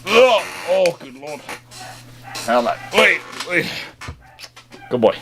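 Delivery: ordinary talk, nothing marked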